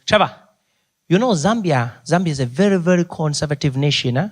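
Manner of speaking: put-on a light Zambian accent, earnest; lightly voiced chaperone giving advice. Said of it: "he looks at me and he goes".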